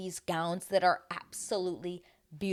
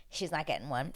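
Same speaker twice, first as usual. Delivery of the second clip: softer, matter-of-fact first take; quiet realisation; muted verdict; 7 dB quieter than usual. Retold or imitated. Prediction, then repeated firmly.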